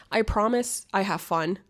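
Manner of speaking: normal talking voice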